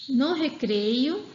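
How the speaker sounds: "No recreio," bem lento, com pausa depois; pausa da vírgula. Shown as a demonstration. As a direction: diga devagar e pare na vírgula. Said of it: "aí dá uma pequena pausa". (professora mostra a pausa da vírgula)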